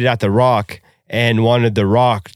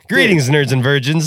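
imitating Colby's catchphrase. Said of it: "all his videos".

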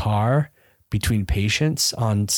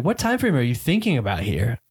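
put-on Minnesota accent; 2 semitones higher than usual. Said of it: "like, a Minnesota lady".

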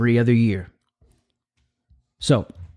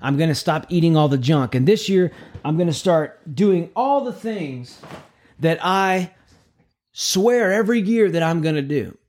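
mock resolution voice; 2 semitones higher than usual. Mimics new year resolution voice.

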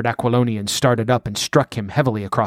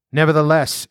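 impatient; 4 semitones higher, 3 dB louder than usual. Acted. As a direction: brush it off, impatient. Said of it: "answered the outlaw impatiently".

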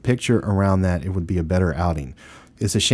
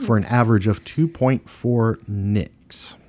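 whisper; 3 semitones higher, slower than usual. Real, not acted. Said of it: "whispered score".

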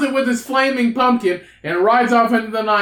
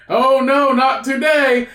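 mock action-hero line; 2 semitones higher, slower than usual. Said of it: "do you sound like Matumbo".

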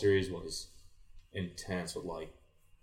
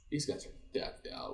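a hushed, breathy whisper, higher; awed whisper; 8 semitones higher, 6 dB quieter than usual. Retold or imitated. Player eyeing the rival team's gear, awed whisper. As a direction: whisper it sizing up the powerhouse.

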